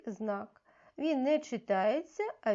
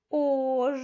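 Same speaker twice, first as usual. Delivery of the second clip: louder, clearly called "Ож"; called-out syllable; 3 semitones higher, 7 dB louder than usual. Shown as a demonstration. Teacher calls a syllable for children to find, loud and clear. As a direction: call out the syllable "Ож" for the class. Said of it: "Я буду називати склад".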